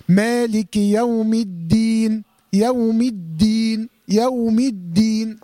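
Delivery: slow recitation, الدين with a firm, clean dal; correct strong dal. Shown as a demonstration. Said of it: "هكذا".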